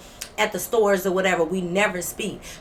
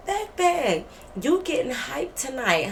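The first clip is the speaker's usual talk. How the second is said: higher opening, then slow teasing; mock taunt; 4 semitones higher, slower than usual. Storyteller taunting roommate getting hyped tonight, slow mock taunt. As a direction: tease her for acting big.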